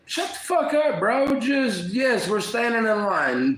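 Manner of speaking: put-on venting at the kid who cut the line; angry retort. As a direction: snap back at the line-cutter, pitch way up.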